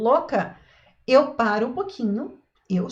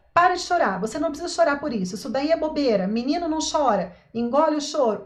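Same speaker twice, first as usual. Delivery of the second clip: impatient scolding parent; 3 semitones higher, faster than usual. Retold or imitated. Parent telling a crying boy to stop, mildly stern. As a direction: brush off the tears briskly, like an irritated mum. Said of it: "como que a gente faz?".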